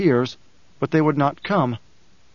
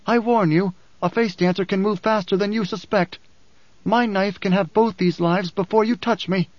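higher-pitched villain voice; understated menace, pitched up; menacing face dancer; 5 semitones higher than usual. Acted. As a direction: warn them off as a lightly voiced villain. Voices Skytail threatening with a knife.

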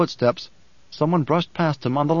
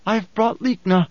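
higher-pitched demanding woman's voice; mildly harsh and insistent; 6 semitones higher than usual. A narrator's reading. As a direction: announce it with a touch of harshness. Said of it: "harsh and demanding".

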